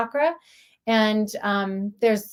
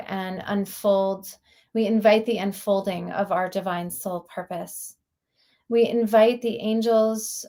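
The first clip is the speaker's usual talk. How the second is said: measured, reverent prayer voice; opening prayer. Real, not acted. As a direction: pray aloud in unhurried, evenly paced phrases.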